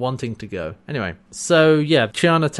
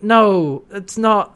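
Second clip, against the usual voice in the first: high, pleading denial; acted protest; 6 semitones higher, 4 dB louder, much slower than usual. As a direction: protest with raised pitch. John protesting he doesn't blame her.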